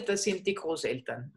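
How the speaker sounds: softly whispered hint. Acted. Teacher whispers the answer to the students as a hint. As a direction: breathe the words as a secret hint.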